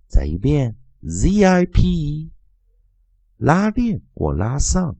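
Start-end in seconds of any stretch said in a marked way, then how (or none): 0.1-2.3 Z I P spelled slowly, then zip chanted louder each time; spelling drill. Shown as a demonstration.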